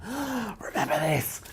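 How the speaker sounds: slow, very high squeal of recognition; delighted surprise. Retold or imitated. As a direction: act the crowd hearing a forgotten pop hit. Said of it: "just to see people's faces go".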